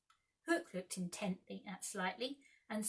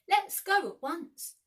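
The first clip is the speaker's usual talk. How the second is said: high, loud and slow; urgent; 10 semitones higher, 11 dB louder, slower than usual. A narrator's reading. Wendy urging her brothers home, high and slow. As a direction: insist on leaving at once.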